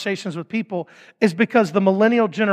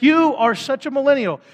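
millennial said like a cuss word, higher pitch; teasing put-down with raised pitch; mock insult; 6 semitones higher than usual. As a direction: lightly hurl it as a playful insult. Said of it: "almost like using the cuss word".

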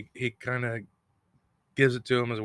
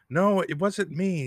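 high, drawn-out mock protest; retold protesting denial; 9 semitones higher, 3 dB louder, slower than usual. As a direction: act out a high-pitched denial. Ingalls retold denying the killing.

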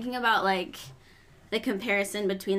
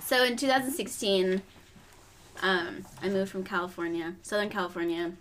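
chewing while talking. Real, not acted. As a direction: mouth full of berries. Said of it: "I'm chewing now".

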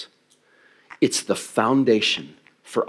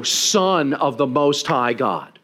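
slow, stretched-out lofty title; grand divine pronouncement; 3 semitones higher, much slower than usual. Acted. Preacher imagining God naming His son, grandly. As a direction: announce it grandly, drawing out the words. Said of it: "Put some reverb on it".

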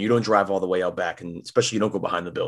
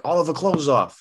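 higher, gruff bartender calling out a name; Mo's accent; 8 semitones higher, 3 dB louder than usual. Retold or imitated. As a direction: call the prank name like Mo from The Simpsons. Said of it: "with Mo's accent".

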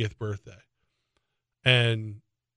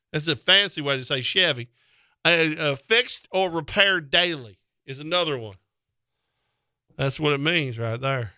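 ordinary talk, nothing marked

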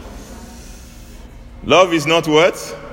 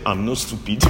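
quiet reply; 4 semitones lower, 6 dB quieter than usual. Retold or imitated. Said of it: "I just said".

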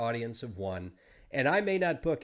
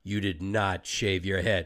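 slow, low, emphatic producer; flat accusation, no question; 5 semitones lower than usual. Retold or imitated. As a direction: state it as a stern, disbelieving verdict. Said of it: "it wasn't even a question".

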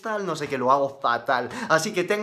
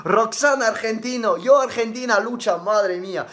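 loud, high, hammed-up Argentine accent cheer; mock Argentine accent; 5 semitones higher, 6 dB louder than usual. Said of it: "Y sos de Argentina". (acento argentino exagerado, alto y agudo)

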